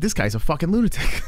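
laughing it out mid-line; half-laughing disbelief at the story. Retold or imitated. Dad telling chat about a killer's interview, laughing.

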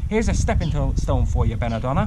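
mild storybook holler; taunting call. Acted. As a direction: call out a dare to a rival. Finn hurls rock, calling to rival.

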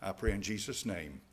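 earnest pastor's prayer voice; closing prayer. Acted. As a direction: pray over the parents and children. Closing prayer over congregation.

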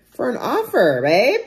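high, loud hype; excited emphasis. Real, not acted. Buyer cheering self on over the offer, excited. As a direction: hype yourself up, punching it out.

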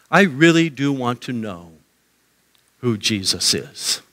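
earnest, settling low and slow; sincere seeker. Acted. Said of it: "a person really there saying".

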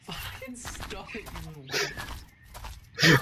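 playful yell. Real, not acted. Yelling at his mate Dan across the game. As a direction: stretch the insult out at full volume.

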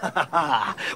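short gleeful chuckle at fools; a sly self-satisfied chuckle; rogue's laugh. Acted. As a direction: laugh to yourself at the gullible. Rogue alone, laughing at dupes.

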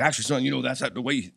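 lightly imitating a musician friend's talk; mild impression of a fast-talking older player; Fast Eddie. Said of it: "that's how he talks".

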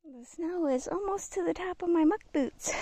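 panting a little while climbing; breathless from hiking uphill; out of breath. Real, not acted. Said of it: "I'm a little out of breath".

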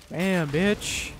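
normal talking voice

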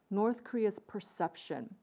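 slow, deliberate perception with the weight on it; stress on perception. Shown as a demonstration. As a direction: spell out perception so it sinks in. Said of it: "I stress the word perception".

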